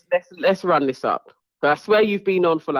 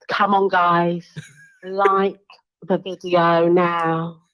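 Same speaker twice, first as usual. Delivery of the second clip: Ella B voice. Retold or imitated. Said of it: "do the intro in Ella B's voice".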